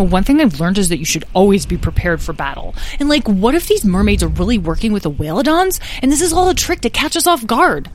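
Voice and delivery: nervous, fretting dragling voice. A narrator's reading. Lyle frets to the others about a mermaid trap, nervous. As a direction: spin out the worry, rising in pitch. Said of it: "Lyle flew nervously".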